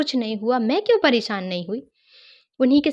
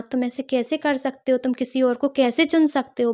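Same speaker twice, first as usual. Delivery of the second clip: raised, reproachful scolding of a brother; half-acted telling-off of a brother; retold scolding; 3 semitones higher than usual. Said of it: "उनको कर्ज करने लगी बहुत ज़्यादा".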